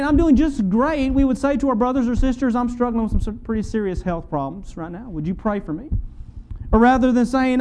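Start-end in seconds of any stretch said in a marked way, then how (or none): 0.0-1.1 slow, put-on cheerful "I'm doing just great"; a slow, fake-cheerful "I'm doing just great"; mock cheerful. The masked answer, set against honesty. 2.6-5.9 softer, confiding admission; a softer, sincere plea for prayer; honest and quiet. Retold or imitated. The honest answer instead of the mask.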